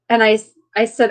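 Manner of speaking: ordinary delivery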